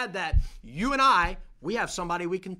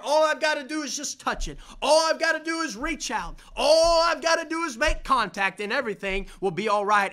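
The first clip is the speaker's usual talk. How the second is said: rising, louder resolve building to a shout; building cry; 5 semitones higher, 4 dB louder than usual. Retold or imitated. Preacher voicing the woman's resolve, building to a shout. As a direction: voice her resolve climbing to a shout.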